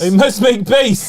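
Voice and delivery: slow hissing Gollum impression. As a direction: creep it out like Gollum. Gollum echo, Mister Frodo follows.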